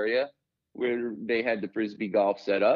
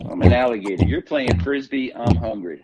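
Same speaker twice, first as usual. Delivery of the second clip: loud hungry alligator growl; 3 semitones lower, 7 dB louder than usual. Pretend. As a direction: bellow it as a starving gator.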